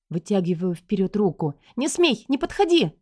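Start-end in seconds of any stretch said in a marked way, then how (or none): 1.8-2.9 high, scared cry to keep him away; panicked, pleading warning; frightened warning. A narrator's reading. Wife warding off husband. (жена испуганно кричит мужу, чтобы не подходил)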